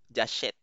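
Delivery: "j'achète" with an open Tagalog-style eh; open grave E. Shown as a demonstration. Teacher showing the grave accent, "j'achète" with open eh. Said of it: "Parang yung Tagalog na eh natin".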